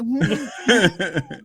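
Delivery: mock mumble through food; mouth full. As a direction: hum it like your mouth is full. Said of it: "With your mouth full".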